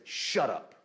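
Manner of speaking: firm command without shouting; emphatic boldness. Retold or imitated. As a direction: emphatically put a stop to it. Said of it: "There's an emphatic boldness in the Greek".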